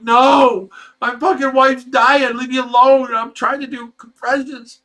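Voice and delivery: desperate shout, high and loud; frantic yell. Retold or imitated. Husband yelling at the phone dispatcher, frantic angry shout. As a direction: yell it at her like your wife is dying.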